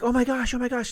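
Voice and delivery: high, loud panicked cries; frantic high-pitched mock victim yelling; panicked screaming. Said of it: "and they're screaming, like, panic".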